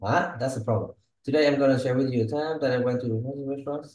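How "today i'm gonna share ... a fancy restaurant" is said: fast run-through, no key word picked out; imitating a learner's unstressed reading of "share" and "time"; flat, unstressed imitation. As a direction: rattle "share", "time" and "fancy restaurant" off quickly without emphasis. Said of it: "the word is very flat".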